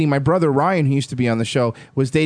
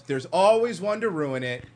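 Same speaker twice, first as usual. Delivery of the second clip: grumbling dad; 3 semitones higher, 6 dB quieter than usual. Retold or imitated. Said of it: "and he goes".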